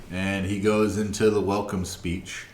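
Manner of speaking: normal talking voice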